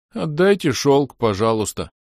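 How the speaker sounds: an elf asks the orc to return the silk, high; high plea. Acted. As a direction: beg for the silk back. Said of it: "попросил эльф".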